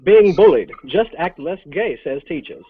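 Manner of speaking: mock headline read, slowing at the end; hammed-up evening-news delivery; news anchor read. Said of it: "Today in other news".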